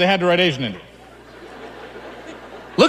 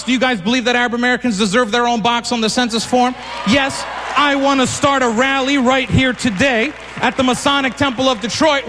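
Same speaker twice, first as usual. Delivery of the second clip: rallying shout. Real, not acted. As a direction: shout it to rouse the crowd. Rallying the crowd.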